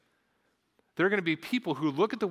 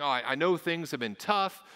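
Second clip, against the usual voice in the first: fretting onlooker; 3 semitones higher, faster than usual. Retold or imitated. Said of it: "and they think".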